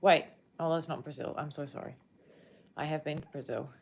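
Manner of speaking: ordinary talk, nothing marked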